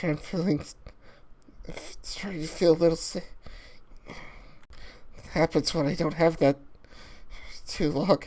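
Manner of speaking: low, soft, feeble whisper; drained and sick from withdrawal, whispered. Acted. Lucha in withdrawal confides to Hunter, weak whisper.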